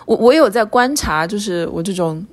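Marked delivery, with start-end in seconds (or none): none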